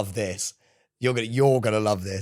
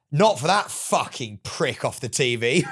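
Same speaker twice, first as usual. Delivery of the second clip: put-on rock-band accent; 4 dB louder, slower than usual. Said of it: "whatever band accent that he has".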